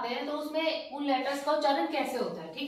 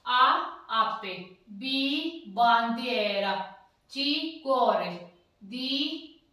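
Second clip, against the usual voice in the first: teacher reading aloud; much slower than usual. Shown as a demonstration. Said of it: "आप भी मेरे साथ साथ उच्चारण करना".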